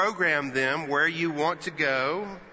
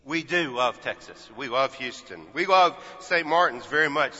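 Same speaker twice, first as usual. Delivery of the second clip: sincere. Real, not acted. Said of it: "there really is no place like home".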